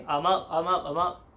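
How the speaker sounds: jolted up, insisting I'm up; mock groggy protest; startled awake. Dozing traveller tapped awake, groggy startled protest. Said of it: "the blonde guy taps me".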